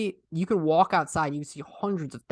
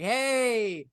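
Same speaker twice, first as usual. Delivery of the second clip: higher, drawn-out mocking call; teasing heckle; 5 semitones higher, slower than usual. Imitating a Boston man messing with people walking by, teasing. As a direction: holler at passersby, imitating the heckler. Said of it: "messing with people".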